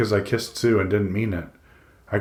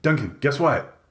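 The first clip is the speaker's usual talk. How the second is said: high, eager tease of news; dying to share the news; excited character voice, pitched up; 6 semitones higher than usual. A narrator's reading. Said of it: "He's so excited".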